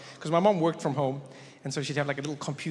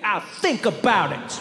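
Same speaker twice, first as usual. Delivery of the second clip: slow, higher-pitched sassy reply; kid with attitude; 4 semitones higher, 3 dB louder than usual. Retold or imitated. Kid to apologizing mom, slow sassy attitude. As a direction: drag it out, milking the power. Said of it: "give my mom unlimited attitude".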